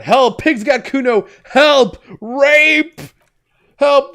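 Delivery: high, frantic screams for help; shrill panicked kid yelling help; child shouting for help. Acted. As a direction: yell it out the window like a panicked kid. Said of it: "a child shouts at the window".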